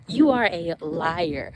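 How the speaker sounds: "You are a liar" drawn out, weight on each word; slow emphatic repeat. Retold or imitated. Rebuking the devil after a laugh, slow and emphatic. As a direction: stretch out LIAR with firm emphasis.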